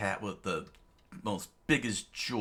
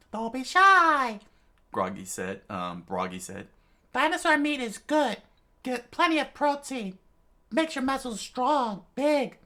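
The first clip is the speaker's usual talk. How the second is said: hearty giant host; 7 dB louder than usual. Acted. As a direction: urge them to eat heartily.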